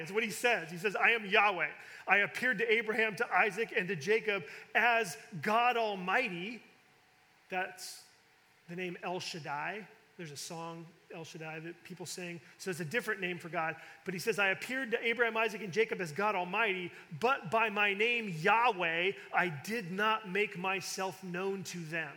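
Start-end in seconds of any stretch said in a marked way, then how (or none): 1.0-6.6 louder and higher declaration of the name; proclaiming. Acted. Preacher voicing God to Moses, loud and proclaiming. Emphatic reading of God's words. 14.4-22.1 proclaiming. Acted. Preacher voicing God to Moses, loud and proclaiming. Emphatic reading of God's words.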